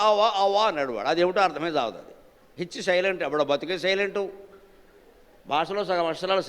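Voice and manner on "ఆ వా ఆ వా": "ఆ వా" said for హోర, with no h or r; mock the English speaker's "ఆ వా"; mimicked mispronunciation. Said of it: "ఈ హోరనే పలకలేక". (హోరను పలకలేని "ఆ వా" అనుకరణ)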